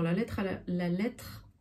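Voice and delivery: hiccups breaking the words; talking through hiccups; hiccuping. Real, not acted. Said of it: "pardon, j'ai le hoquet".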